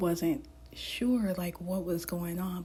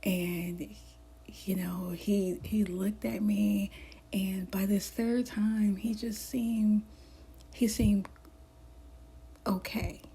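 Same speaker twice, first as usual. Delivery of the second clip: hushed ASMR storytelling, mostly breath; gentle whispered journal read. Real, not acted. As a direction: whisper the story close to the mic.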